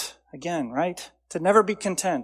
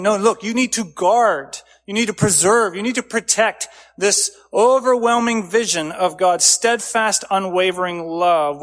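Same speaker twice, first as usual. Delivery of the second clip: urgent charge; 3 semitones higher, 5 dB louder than usual. Acted. Preacher urging the congregation to guard God's love, urgent and loud. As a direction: press the command home hard.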